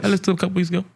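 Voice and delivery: speaking up. Real, not acted. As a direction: repeat it up and out, no mumbling. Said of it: "Say it with your big voice".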